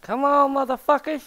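high, loud snarling battle cry; Wolverine voice. Acted. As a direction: roar it like a feral mutant. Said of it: "that was my Wolverine impression".

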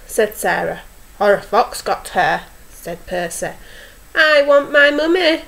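expressive storyteller with lifted owl lines; story reading to children. A narrator's reading. Teacher reads owl story to young children, expressive storytelling. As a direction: read a picture book to little ones.

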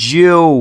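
"জেউ" loud and drawn out, opening on j. Shown as a demonstration. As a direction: stretch "জেউ" loudly from a j start. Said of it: "বর্গীয় জর মতো উচ্চারিত হবে". ("জেউ" জোরে টেনে, বর্গীয় জ দিয়ে)

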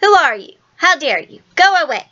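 high-pitched, offended little outburst, falling on each phrase; indignant cry. A narrator's reading. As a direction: send an intruder packing in short bursts. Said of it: "she cried".

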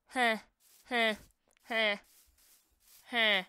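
short huffs of laughter at herself; breathless laughter. Real, not acted. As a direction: laugh helplessly at your own mistake. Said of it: "I'm laughing so hard at myself".

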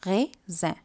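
slow French "raisin", ray ... zan; French pronunciation. Shown as a demonstration. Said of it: "ஏ ன்னு தான் sound பண்ணும்".

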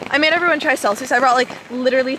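loud over the downpour; yelling over rain. Real, not acted. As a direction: push the voice above the rain noise. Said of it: "I'm literally yelling over the rain".

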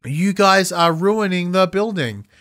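deliberately unconvincing line reading; mock flat delivery. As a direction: say it with no real emotion. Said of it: "The comedy wasn't there".

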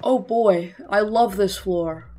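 drawn-out fake delight; deadpan sarcasm, stretching the praise; sarcastic. Player grumbling about a game floor, sarcastic. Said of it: "I'm being very sarcastic".

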